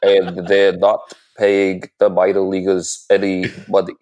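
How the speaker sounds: lightly voiced senator oratory; a hint of a pompous senator, hand pointing; Bernie Sanders impression. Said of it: "Senator Sanders impression".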